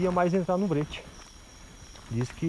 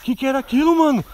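shaken; 12 semitones higher, 9 dB louder than usual. Acted. Just escaped, shaken.

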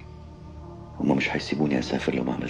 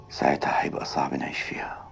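slow hushed whisper; 6 semitones lower, 3 dB quieter than usual. Acted. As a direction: whisper it slowly, worried. Husband confides fear at night.

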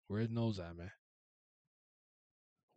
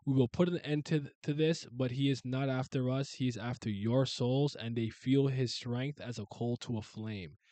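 god addressing army; 3 semitones higher, 6 dB louder, slower than usual. Acted. God proclaiming to human army, loud and slow.

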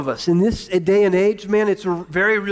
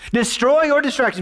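pitched up, preached with soul; 6 semitones higher than usual. Shown as a demonstration. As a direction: sell the title like a preacher. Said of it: "I said it with some soul".

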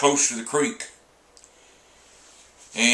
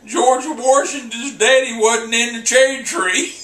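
half-shouted through real laughter, higher and louder; laughing punchline; 9 semitones higher, 5 dB louder than usual. Real, not acted. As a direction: blurt the punchline while cracking up.

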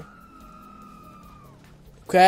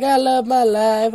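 voicing a freaking-out guy; 3 semitones higher, 5 dB louder than usual. Gamer voicing a freaking-out guy, light mock. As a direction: lightly play a crazed happy bystander. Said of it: "He's like".

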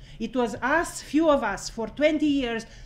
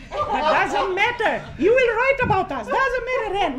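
laughing tease; 8 semitones higher, 5 dB louder than usual. Real, not acted. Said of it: "teasing colleague, laughing".

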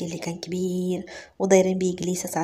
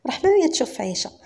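usual speaking voice

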